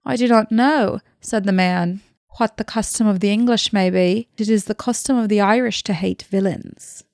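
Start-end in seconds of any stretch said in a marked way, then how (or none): 0.0-1.0 attempted Irish accent; Irish villager's reply, amateur accent. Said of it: "I'm sorry for that Irish accent". 2.4-7.0 attempted Irish accent. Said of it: "I'm sorry for that Irish accent".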